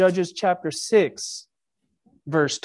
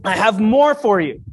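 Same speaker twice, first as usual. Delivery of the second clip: infomercial voice; 2 semitones higher, 4 dB louder than usual. Acted. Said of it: "I sound like an infomercial".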